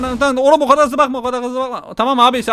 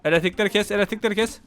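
soft, repeated urgent commands; quiet rapid-fire sneaking orders; hushed urgency; 7 dB quieter than usual. Real, not acted. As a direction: keep it down while urging a getaway. Sneaking, urging escape in game.

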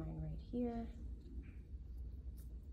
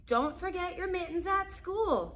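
mock yell; 11 semitones higher, 7 dB louder than usual. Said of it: "yelled Molly's parents".

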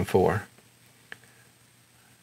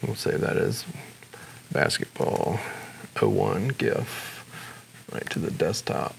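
low, soft talking to oneself; quiet self-talk; 3 semitones lower, 8 dB quieter than usual. Real, not acted. Tutor naming a file as he saves it, quiet self-talk. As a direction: murmur it in pieces while typing. Talking to himself while typing filename.

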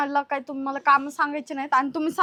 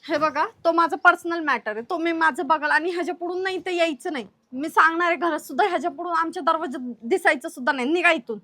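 firm, annoyed warning; angry. Acted. Sister-in-law ordering brother-in-law away, angry. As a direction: lay down the law, a touch heated. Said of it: "तुम्हाला एवढा राग आला होय".

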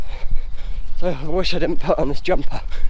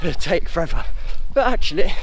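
talking mid-run, a little breathy; while running. Real, not acted. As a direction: speak as if jogging. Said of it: "just finished the first K".

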